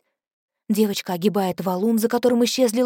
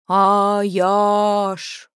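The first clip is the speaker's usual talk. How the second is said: whistling s; 4 dB louder than usual. Acted. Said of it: "Голос низкий, с присвистом". (низкий голос с присвистом)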